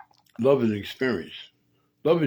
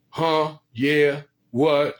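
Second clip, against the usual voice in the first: a mock grunting, louder dumb-guy voice; one-syllable guy; 3 semitones higher, 5 dB louder, much slower than usual. Host mocking a one-syllable man, mock grunting voice. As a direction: play a lunkhead who only grunts. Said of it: "One syllable is".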